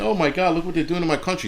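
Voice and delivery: mock dismay. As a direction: parody a fussing protester. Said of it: "it's not fucking".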